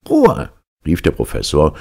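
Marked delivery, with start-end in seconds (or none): 0.1-0.5 high, loud furious Ruhe; angry shout. Acted. Professor shouting down the mocking orderly, furious. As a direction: bellow for silence. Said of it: "der nun ernsthaft böse wurde".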